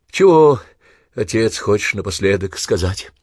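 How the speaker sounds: plain reading voice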